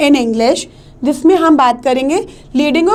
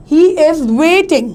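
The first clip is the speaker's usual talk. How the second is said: "waiting" stressed on its long first syllable; tonic stress; much slower than usual. Shown as a demonstration. Teacher giving an example of tonic stress, "waiting" stretched. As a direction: hold the "wai" in "waiting", then drop on "ting". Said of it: "you are taking it longer".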